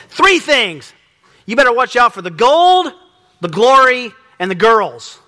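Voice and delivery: put-on belting the professor's mantra in a Hispanic accent; imitating a Hispanic accent. Seminary professor warning his students, in a loud mock Hispanic accent. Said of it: "a Hispanic accent".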